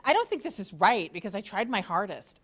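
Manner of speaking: a light hint of Valley Girl; lightly mock a complaining Valley Girl student. Professor reading a student's complaining email, lightly mocking Valley Girl. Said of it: "sorry I did the Valley Girl, voice".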